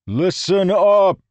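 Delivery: slow, high, loud call for silence; shouted. A narrator's reading. Rlain shouting over both quarreling groups. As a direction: command the whole crowd. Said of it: "he shouted to Confidence".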